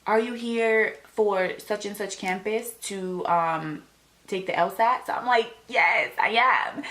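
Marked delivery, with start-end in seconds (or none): 0.1-5.1 high, slow, chirpy official greeting; friendly greeter. Retold or imitated. Campus lady asking if she is here for the test, chirpy. 5.7-6.8 slow, high, emphatic yes; re-enacted elated confirmation, stretched out; eager yes. Test-taker answering the campus lady, eager and elated.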